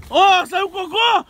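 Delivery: slow, high excited announcement. Pretend. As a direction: announce it like big news. Mock nature commentary on dinosaur.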